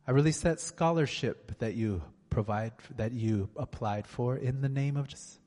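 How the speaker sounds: fervent, rhythmic prayer; healing prayer. Acted. A preacher praying healing over the congregation, fervent. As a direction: pray over them with conviction.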